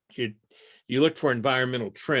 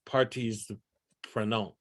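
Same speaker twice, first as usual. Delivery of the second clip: French pronunciation; 2 semitones lower, 4 dB quieter than usual. Shown as a demonstration. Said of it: "that's a terrible, uh, accent".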